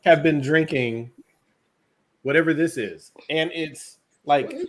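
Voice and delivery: slow, a little tipsy. Real, not acted. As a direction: talk a bit slowly, tipsy. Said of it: "low-key drunk".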